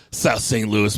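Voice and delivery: low, sultry South Saint Louis. Acted. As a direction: purr South Saint Louis with mock seduction. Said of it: "steamy, sultry".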